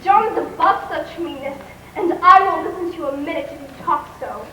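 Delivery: how dare you, furious; indignant outburst. Acted. Girl indignant at aunt.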